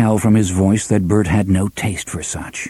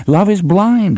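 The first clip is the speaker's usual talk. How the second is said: amused; 9 semitones higher than usual. A narrator's reading. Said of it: "He snorted laughter and clapped Roland".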